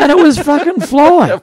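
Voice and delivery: laughing while telling his co-host. Real, not acted. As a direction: crack up at the memory. Laughing at the memory.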